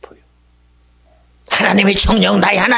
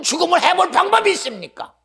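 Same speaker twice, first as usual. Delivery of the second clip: usual speaking voice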